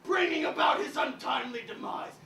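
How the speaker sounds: archaic declaiming with shouts; a hint of a stage Elizabethan; Shakespearean ranting. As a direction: play the noble avenger. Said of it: "Why are you talking like that?".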